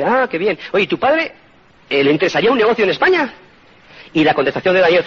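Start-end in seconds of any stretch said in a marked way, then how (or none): 0.0-3.3 light, higher, friendly questioning voice; friendly host curious. Retold or imitated. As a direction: ask it brightly like a curious host. American host family asks son. (la familia americana pregunta al hijo con curiosidad amable)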